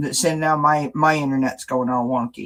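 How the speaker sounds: glitchy robotic audio; choppy, broken-up robot voice. Real, not acted. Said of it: "You sounded like a robot for a minute".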